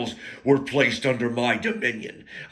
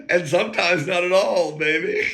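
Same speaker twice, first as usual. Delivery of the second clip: smug grin; 6 semitones higher than usual. Retold or imitated. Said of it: "he gets that shit-eating grin, he goes".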